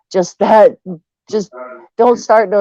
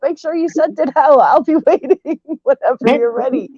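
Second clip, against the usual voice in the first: mocking imitation; 8 semitones higher than usual. Mocking a chat reply.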